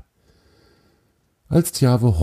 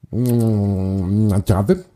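cheerful beaver. Acted. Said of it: "sagte er fröhlich".

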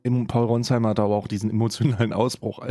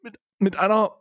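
much higher, slowed, near-crying exasperation; exasperated squeal; 10 semitones higher than usual. Real, not acted. Host recalling the awkward scene, high exasperated squeal. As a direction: squeak it out in disbelief.

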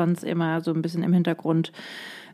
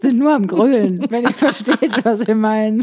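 mock bawling; 4 semitones higher, 6 dB louder than usual. Jokingly mimics bawling fans.

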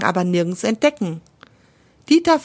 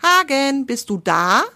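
calling again; 5 semitones higher than usual. Acted. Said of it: "Frodelinde ruft nochmal".

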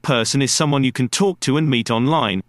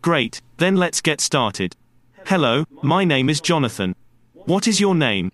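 kindergarten teacher voice. Shown as a demonstration. Demo lesson to podcast learners.

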